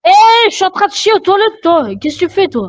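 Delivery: high, fast outraged rant; indignant yelling at the players; raging gamer. Real, not acted. Gamer ambushed on toilet.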